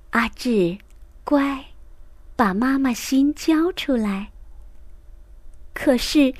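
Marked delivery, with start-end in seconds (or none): 0.1-4.3 put-on softer, gentle teacher coaxing a child. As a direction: coax him softly, like soothing a kid. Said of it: "都更温柔地说". (老师温柔地哄阿志交出妈妈心)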